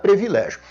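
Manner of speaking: privilégio mispronounced "pre-vi-LÉ-gio"; privilégio with E in first syllable. Shown as a demonstration. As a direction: say privilégio starting "pre", not "pri". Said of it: "Não se admite escrever nem pronunciar".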